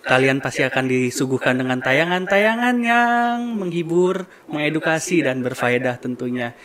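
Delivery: vlog outro. Acted. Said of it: "closing dulu".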